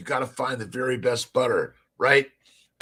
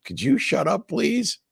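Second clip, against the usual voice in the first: high, mock-exasperated wife voice, rising higher on please; imitating his wife; 8 semitones higher than usual. Husband mimics his wife Tia asking him to shut up, high mock-pleading voice. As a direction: parody her telling him to hush. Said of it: "Tia's like".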